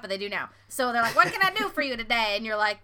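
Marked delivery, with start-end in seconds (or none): 1.2-2.3 quick, lightly put-on teller greeting; bank teller voice. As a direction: rattle it off like a drive-through teller. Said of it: "I don't know why they sound like that".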